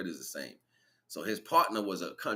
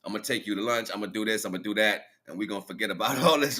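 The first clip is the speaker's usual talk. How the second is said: slick, easy sweet-talk; smooth-talk her into staying; the villain sweet-talking the grieving wife, smooth and easy; smooth talker; 2 semitones higher, 6 dB louder, faster than usual. Retold or imitated. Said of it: "Real smooth".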